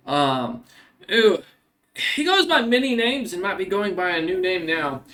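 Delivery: courteous inquiry in a lightly acted voice; polite monster hunter. Stranger asks after a criminal.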